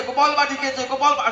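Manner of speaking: high, breathless tattling with a laugh; children's excited cry. Acted. Boys telling mother about Gopal, excited and laughing. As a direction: keep shouting over each other, giggling. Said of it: "সবাই একসঙ্গে বলছে".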